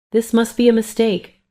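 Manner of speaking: high-pitched, disbelieving protest; voice rising. A narrator's reading. Mother disputing the nurse's records, voice rising. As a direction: protest with your voice pushed up high. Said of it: "my voice rising".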